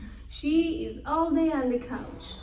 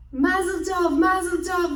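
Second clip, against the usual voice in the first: high, loud festive cheer; joyful cheer; 6 semitones higher, 7 dB louder than usual. A narrator's reading. Narrator cheering the weddings, high festive cheer. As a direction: toast the couples.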